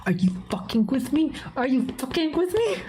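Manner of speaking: rising, high mock-outraged disbelief; incredulous. Streamer finds the books already sold, incredulous. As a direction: pitch climbs into a squeaky question.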